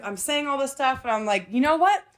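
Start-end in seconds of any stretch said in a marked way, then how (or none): 1.5-2.0 mock-polite, dripping with sarcasm; overly sweet fake apology, not meaning a word; sarcastic apology. To her controlling date, a sarcastic sorry. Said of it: "obviously being sarcastic and being fucking facetious".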